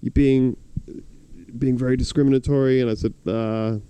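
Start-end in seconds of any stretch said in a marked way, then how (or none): 0.0-2.8 mock offended man. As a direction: whine it like a prim scold. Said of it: "It's like".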